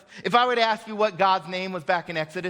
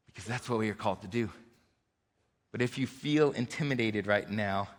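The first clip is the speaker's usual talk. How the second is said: much softer and lower, pleading gently; quiet earnest appeal; 8 semitones lower, 6 dB quieter than usual. Real, not acted. Pastor quietly urges his church to sacrifice, in a soft, earnest voice. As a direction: lower your voice and plead with them softly.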